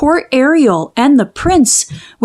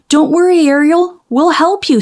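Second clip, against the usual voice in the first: higher, eager seagull voice; Scuttle the seagull; 7 semitones higher than usual. Acted. Scuttle reassures Ariel he'll help, eager higher bird voice. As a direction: pitch it up like an excited seabird promising help. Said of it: "said Scuttle".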